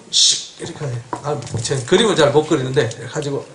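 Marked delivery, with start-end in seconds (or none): 0.1-0.6 imitated puff from the nose; cartoon whoosh. Shown as a demonstration. Preacher showing cartoon smoke from the nose, whooshing. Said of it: "코에 막 이렇게 구름".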